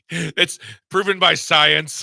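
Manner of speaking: slow, deadpan quote of the week; mock quoting. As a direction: savor each word, amused. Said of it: "that's the quote of the week".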